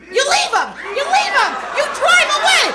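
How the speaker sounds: loud, punchy dad declaration; loud and gleeful; triumphant shout. Retold or imitated. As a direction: bark it like the obvious answer. Dad's solution, shouted.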